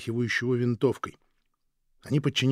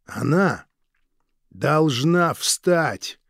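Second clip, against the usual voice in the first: loud, very slow, every word pressed; harsh insistence; 4 semitones higher, 6 dB louder, much slower than usual. Acted. Guard refusing the husband's plea, harsh and loud. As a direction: lean on it, no argument.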